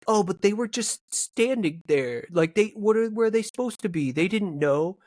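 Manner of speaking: a hint of whiny protest, imitated; Steve. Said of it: "I love your impersonation of Steve".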